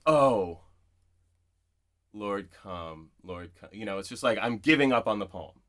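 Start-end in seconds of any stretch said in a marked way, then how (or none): 0.1-3.7 quoted plea. Shown as a demonstration. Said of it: "And then that".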